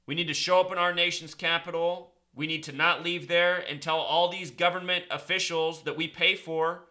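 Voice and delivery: loud, urgent rant to his viewers; a fired-up conspiracy vlogger rallying followers. Acted. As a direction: rail against the elites like a street preacher.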